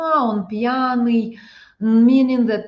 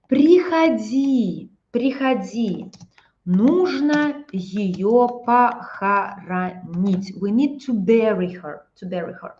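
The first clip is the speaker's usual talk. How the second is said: mock sad phone call. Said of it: "I'm calling you by phone".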